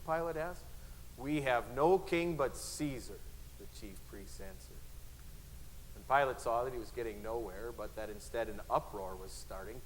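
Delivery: dramatic Bible reading with voiced crowd; dramatic reading aloud; scripture reading. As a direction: read the passion story with feeling. Reads Gospel passage aloud.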